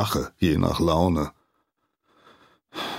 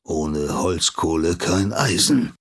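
grumbled. Acted. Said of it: "brummt der Schmied zurück".

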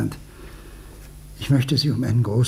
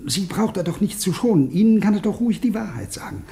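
anxious pleading; 4 semitones higher than usual. Acted.

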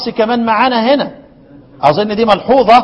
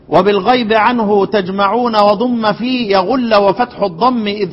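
poem recitation; slower than usual. Acted. Recites the didactic poem verse.

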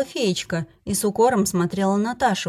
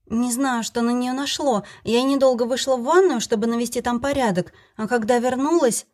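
flustered, higher, on the verge of tears; shaken tearful witness; 4 semitones higher than usual. Acted. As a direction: blurt it out, shaken and upset. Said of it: "сбивчиво рассказывала Таша".

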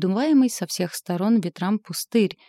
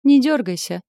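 loud, higher teasing; mocking command; 6 semitones higher, 8 dB louder than usual. A narrator's reading. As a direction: tease her as she floats. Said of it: "насмешливый голос".

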